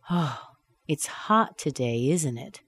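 slow, ISN'T IT sinking at the end; confirmation-seeking tag. Shown as a demonstration. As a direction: sigh OH, then let ISN'T IT fall. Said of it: "asking for your confirmation".

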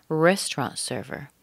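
RESTAURANT carries the weight, "server" lighter; stress on RESTAURANT. Shown as a demonstration. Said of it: "We're stressing the restaurant".

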